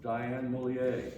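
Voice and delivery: Mollier said the French way; slow French pronunciation of Mollier; French accent. Shown as a demonstration. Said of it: "I'm using my French accent".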